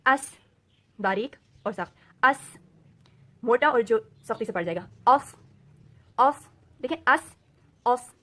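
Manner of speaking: اس thin and hard, then heavy with اوف; sibilant letters read. Shown as a demonstration. Teacher reading the letters aloud to students, loud. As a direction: read each sibilant slowly. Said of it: "میں آپ کو پڑھ کے بتاتی ہوں".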